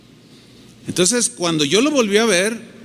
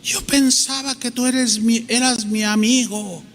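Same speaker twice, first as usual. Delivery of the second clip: feeling betrayed; 4 semitones higher than usual. Acted. Betrayed friend confronting the one who corrected him, hurt. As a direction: act out a betrayed friend's protest. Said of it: "de sentirse traicionado".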